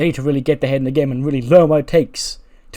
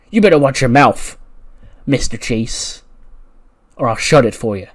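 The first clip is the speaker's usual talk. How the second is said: acted threat; 6 dB louder than usual. Braun threatens the teacher.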